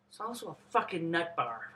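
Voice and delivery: hushed, breathy confiding aside; whispered aside. Real, not acted. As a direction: lean in and let it slip under your breath. Whispered aside about the girl.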